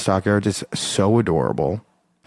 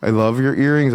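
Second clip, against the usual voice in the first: put-on higher-pitched gushy girl-talk greeting; gushing compliment; 5 semitones higher than usual. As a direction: gush at a stranger, pitch jumping up. Acting out gushing compliment to strangers.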